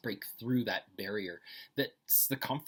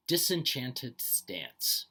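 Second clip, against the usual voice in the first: slow careful reading; 4 dB louder, much slower than usual. Shown as a demonstration. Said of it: "told to read each phrase twice".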